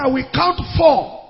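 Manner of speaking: a preacher's fierce command at the sickbed; commanding the dead. Retold or imitated. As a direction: order the dead back to life with authority. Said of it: "I said".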